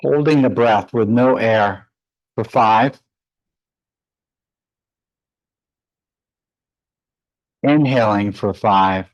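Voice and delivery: measured meditation guidance with long pauses; guided meditation. Real, not acted. Yoga teacher leading students into breath practice, guided meditation voice. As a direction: guide them calmly through the breath, leaving space between phrases.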